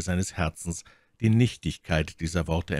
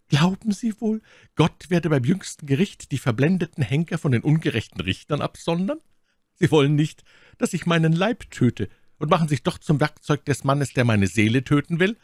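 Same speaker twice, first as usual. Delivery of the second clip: higher-pitched accusing lady; My Lady, vorwurfsvoll; 9 semitones higher, 4 dB louder than usual. A narrator's reading. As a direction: challenge his orders as the wronged prisoner. (vorwurfsvoll fragende Lady, hohe Stimme)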